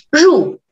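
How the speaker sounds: teacher's demo of falling 入; explosive falling tone. Shown as a demonstration. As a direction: fire off 入 as a small explosion.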